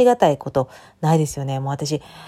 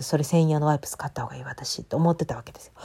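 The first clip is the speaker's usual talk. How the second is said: whisper; 4 dB quieter than usual. Real, not acted. Inner thought confided.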